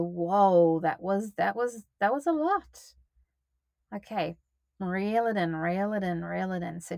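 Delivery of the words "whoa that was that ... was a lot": retold whoa. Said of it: "like I did yesterday, to go".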